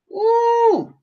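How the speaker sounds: high, drawn-out ooh; exasperated high exhaled ooh; overwhelmed ooh. Real, not acted. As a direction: let out a high ooh to steady yourself. Overwhelmed, needs to breathe.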